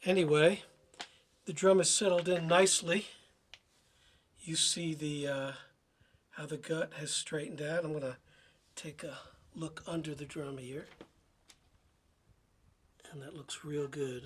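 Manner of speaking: hoarse, nearly lost voice. Showing a drum the next day after losing voice: hoarse voice. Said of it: "sorry my voice is a little hoarse".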